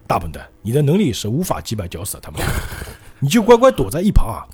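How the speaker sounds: retold sneer at an underling; lightly acted taunt, putting him down; mocking. Vanilla Ice belittles his useless comrade, mocking. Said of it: "就瓦尼拉埃斯嘲讽他的样子".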